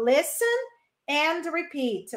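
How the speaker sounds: listen and repeat, slowly; slow, clear classroom instruction. Shown as a demonstration. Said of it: "Me ouça e repita". (instrução lenta e clara)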